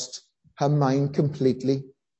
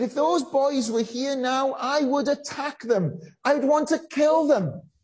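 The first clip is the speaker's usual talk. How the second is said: retold rage; 10 semitones higher than usual. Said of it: "She said".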